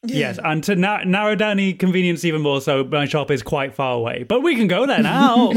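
lightly voiced owl-person shopkeeper; obliging owlin character voice; owlin Fugnog.

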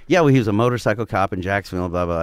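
imitating siblings' casual explanation; matter-of-fact. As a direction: rattle it off as nothing unusual. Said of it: "Matter of factly".

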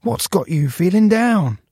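high, crackly plastic-bag voice. A narrator's reading. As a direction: crackle gently, concerned. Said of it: "in a crackly voice".

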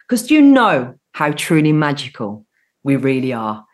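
lilting, measured radio host welcome; upbeat scripted-sounding show opening; show intro. Acted. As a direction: greet listeners with a sing-song presenter's welcome. Opens her show to listeners.

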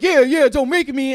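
put-on loud, high whiny kid voice; mock childlike threat; childish bluster. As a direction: whine it like a little kid trying to sound tough. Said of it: "He's like, he's like a child".

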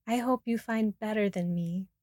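gentle, heartfelt wish; sincere and tender goodbye wish; warmly. Acted. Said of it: "He says this so warmly".

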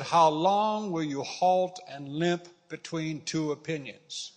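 measured pulpit reading; scripture reading. Acted. Preacher reading Elijah's confrontation to the congregation, scripture reading. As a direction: read the verses out with emphasis on key phrases.

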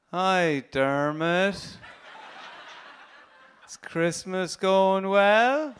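drawn-out slow imitation of a brother, lilting up at each end; slow, rising endings. Brother phoning home from Australia at Christmas, slow with rising endings. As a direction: stretch every word and lift the last one. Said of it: "He just started talking way slower".

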